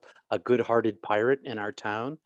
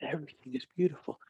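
whispered repeat; 5 semitones higher, 5 dB quieter, faster than usual. Retold or imitated. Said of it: "I'm whispering in his ear".

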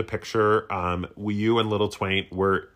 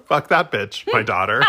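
laughing; 3 semitones lower, 3 dB louder than usual. Real, not acted. Repeating line while laughing.

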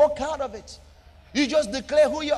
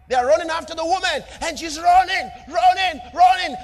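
higher and louder, faster at the start, climbing to a shout; building chase; 6 semitones higher, 5 dB louder than usual. Acted. Preacher builds the chase scene.

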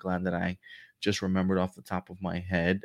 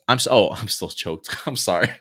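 laughing; 4 dB louder than usual. Real, not acted. Laughs at own misreading.

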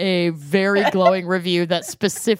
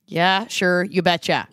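put-on Minnesotan accent. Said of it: "unleash their worst Minnesotan accents".

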